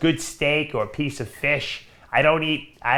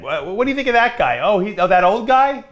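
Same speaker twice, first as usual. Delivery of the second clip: mock young kid; 7 semitones higher, 5 dB louder than usual. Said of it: "That's what they would say".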